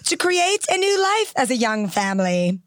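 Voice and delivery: measured royal British reading, phrase by phrase; the Queen's cadence. Shown as a demonstration. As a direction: imitate the Queen's very specific cadence. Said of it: "she speaks in a very specific cadence".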